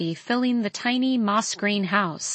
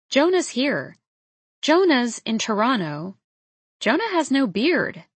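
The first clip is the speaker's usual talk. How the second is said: higher-pitched, astonished realisation; stunned disbelief; 3 semitones higher than usual. Acted. Woman finding Jonah on her porch, stunned disbelief. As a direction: let each fact land in disbelief. Stunned at his sudden appearance.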